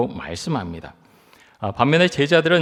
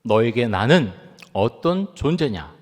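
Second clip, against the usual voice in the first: Lord's question; 2 semitones higher than usual. Retold or imitated. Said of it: "주님께서 우리에게도 동일하게 묻지".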